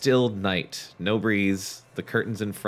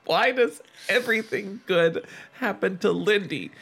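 screamed; 7 semitones higher than usual. A narrator's reading. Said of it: "Chris screamed aloud".

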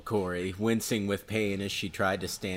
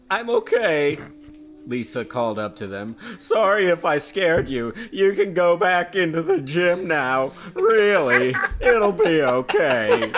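put-on high-pitched teen girl voice, loud; 8 semitones higher, 7 dB louder than usual. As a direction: play Lisa in a high girlish voice. Lisa voiced in read story.

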